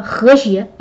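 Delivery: ordinary delivery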